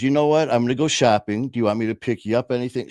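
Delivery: breezy mother voice, quickening at the end; oblivious mom. Retold or imitated. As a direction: casually offer errands, unaware of any trouble. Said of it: "She has no idea what's going on".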